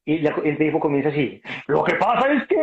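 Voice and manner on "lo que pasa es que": imitating crying. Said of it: "se puso a llorar como una nena".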